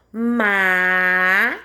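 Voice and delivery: "Majestade" very slow, maaa... jees... taaa... de; low, long syllables of "Majestade" with gaps between; com calma. Shown as a demonstration. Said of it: "Mais uma vez com calma". (majestade com calma, sílaba por sílaba)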